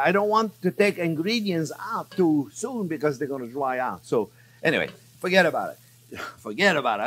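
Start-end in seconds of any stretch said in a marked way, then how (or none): 5.2-7.0 put-on a light, playful New York accent. Cook showing viewers his New York accent, playful New York accent. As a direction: toss it off like a casual New Yorker. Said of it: "That's my New York accent".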